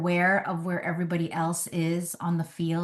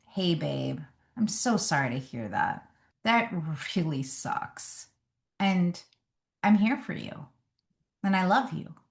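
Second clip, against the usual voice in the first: gentle comfort. Retold or imitated. Words she wished husband said.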